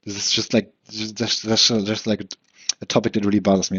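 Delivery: lisping, slurred speech; slurring words. Real, not acted. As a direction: let the words slur together. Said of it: "I'm just slurring all my words".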